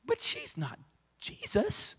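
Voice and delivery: soft, high-pitched teasing aside; joking aside. Real, not acted. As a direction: slip it in softly, up high. Joking aside after praising Christina.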